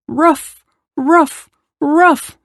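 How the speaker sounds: high-pitched woofs; barking dog. A narrator's reading. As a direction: imitate an excited little bark. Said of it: "barked the dog".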